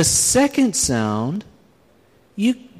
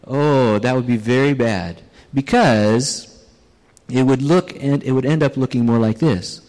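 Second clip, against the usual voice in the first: a hint of the foreman, pitched lower; lightly voiced foreman; 6 semitones lower than usual. Foreman explaining to the speaker why it would look bad, lightly voiced and lower. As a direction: say it as the foreman would, a little lower and matter-of-fact. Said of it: "And he said".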